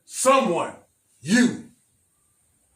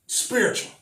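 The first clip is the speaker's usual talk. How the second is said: breathy whisper; 4 semitones higher, 3 dB quieter than usual. Real, not acted. Preacher lands key word softly.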